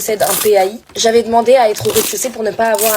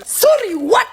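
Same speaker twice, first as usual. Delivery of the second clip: much higher indignant "what"; shocked disbelief; 11 semitones higher, much slower than usual. Real, not acted. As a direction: react stunned. Shocked at rejection.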